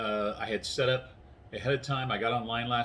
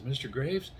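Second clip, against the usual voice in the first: slightly higher, lightly voiced meek caller; 4 semitones higher than usual. Store clerk phoning a sleeping customer, lightly imitated meek voice. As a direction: lightly imitate a timid woman on the phone. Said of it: "this little meek voice in there".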